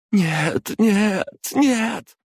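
rising high cries of despair; despairing cry. A narrator's reading. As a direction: break into denial as all die. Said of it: "застонала Света".

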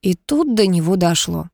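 ordinary delivery, nothing marked

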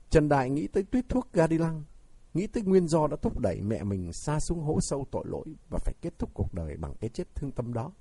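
ordinary delivery

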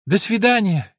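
farewell called high and loud. Acted. Eleanor calls goodbye from the car, calling out. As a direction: call it out across to them. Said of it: "крикнула Элинор".

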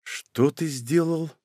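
soft, slow and tense; quiet question. A narrator's reading. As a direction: ask it quietly, barely above a breath. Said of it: "спросил Аурелио тихо".

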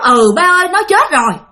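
a daughter breaking down to her father; about to burst into tears. Retold or imitated. Aunt nearly breaks down telling her father his daughter is dead. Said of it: "Muốn khóc, muốn òa lên khóc".

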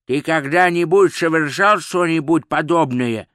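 gurgling, croaking voice; gurgling fish man croak. Acted. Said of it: "хлюпающий голос у него за спиной спросил".

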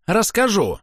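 put-on stubborn child insisting; childish tantrum. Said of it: "на мгновение став похожим на капризного ребёнка".

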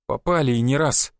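ordinary delivery, nothing marked

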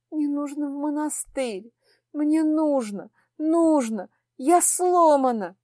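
begging to be sent away; trembling voice. Acted. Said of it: "дрожащим голосом произнесла".

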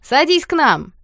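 rowdy schoolboys calling him over, loud; shouted invitation. A narrator's reading. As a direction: yell it over the noise. Guys shout from the table.

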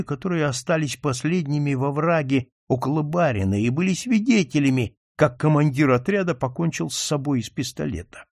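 plain reading voice

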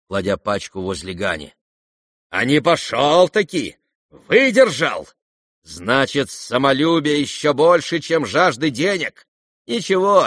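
high, loud, commanding declaration; imperious proclamation. Acted. Nastasya Filippovna to the guests, imperious and loud. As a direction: proclaim it to the whole room.

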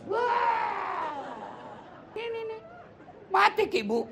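high, comic teasing cry; mock exclamation. Preacher teasing the women about the remarried widower, high comic cry. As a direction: squeal it out, teasing the crowd.

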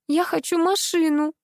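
babbling plea. Acted. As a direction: lisp it like a pleading child. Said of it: "пролепетала Юля".

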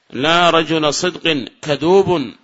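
slow, even repeat; slow measured repeat. Shown as a demonstration. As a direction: say it again for students. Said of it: "repeats example slowly".

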